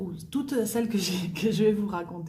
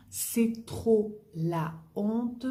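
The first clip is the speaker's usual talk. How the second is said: very slow "C'est trop la honte", stress rising on "trop"; slow lifted model phrase; 4 semitones higher, much slower than usual. Shown as a demonstration. Teacher repeating the slang phrase slowly.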